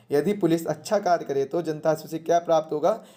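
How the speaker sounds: ordinary talk, nothing marked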